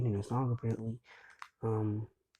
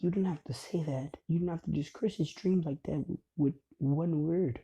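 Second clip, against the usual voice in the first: protesting mother; 5 semitones higher than usual. Retold or imitated. Mother scolds the doctor.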